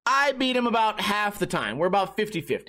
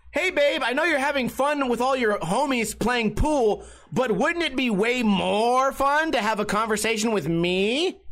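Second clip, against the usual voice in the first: mock needy girlfriend; 3 semitones higher than usual. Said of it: "Notice the inflection".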